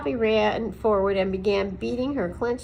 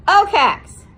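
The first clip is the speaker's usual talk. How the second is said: loud, higher bellow across the clearing; 10 semitones higher, 13 dB louder than usual. A narrator's reading. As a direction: bellow his name at the tree. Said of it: "he bellowed".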